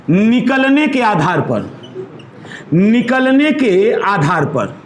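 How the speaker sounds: slow, clearly spaced words; slow dictation for students. Shown as a demonstration. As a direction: dictate it slowly for notes. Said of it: "आपका है".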